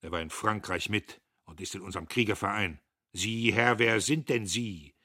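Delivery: laut und hoch, wütend herausgedonnert; donnernd. A narrator's reading. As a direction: wie ein Offizier auf dem Kasernenhof donnern. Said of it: "Der Major donnerte". (der Major donnert Diederich zornig an)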